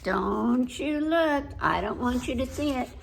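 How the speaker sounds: put-on mildly huffy little girl talking to Stanley; lightly voiced little girl. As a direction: read it as a pouting child who won't play.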